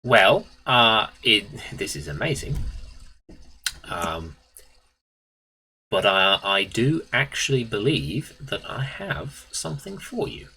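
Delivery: lightly voiced geezer salesman; halting build-up, rising at the end; Bone Hunter. Shopkeeper offering a find to customer, lightly voiced geezer. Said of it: "while doing Bone Hunter".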